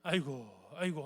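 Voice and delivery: low, mildly acted sigh of woe; a touch of mock lamenting; self-pitying lament. Preacher shows the congregation how people bemoan their lot, mild lament. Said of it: "신세 한탄하는 겁니다".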